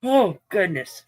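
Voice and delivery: slow, drawn-out yawning words. Real, not acted. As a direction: talk through a yawn. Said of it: "why am I yawning all of a sudden".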